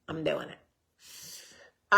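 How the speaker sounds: heel traag en zachter uitgerekt, eindigend omhoog; drawn-out repeat. Shown as a demonstration. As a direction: rek "I'm doing it" langzaam uit en laat het stijgen. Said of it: "so I'm getting it".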